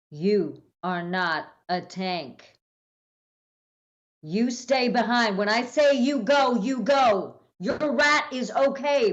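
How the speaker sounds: slow, firm lecture building to a shout on "you go"; stern scolding. Acted. Maya scolding Johnny for rushing in, slow then shouting. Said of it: "I turn to Johnny and I go".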